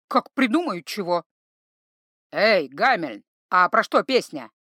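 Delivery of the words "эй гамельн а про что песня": loud gruff shout across the room; louder bellow at the bard; troll bellowing. Acted. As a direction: yell it out, not caring about the mood. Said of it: "заорал Грым".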